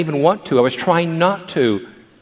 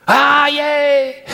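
put-on excited little boy; 13 semitones higher than usual. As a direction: squeal like a three-year-old cheering Grandpa. Grandson cheering coin game.

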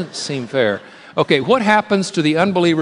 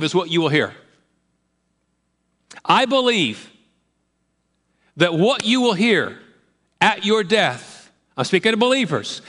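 ordinary talk

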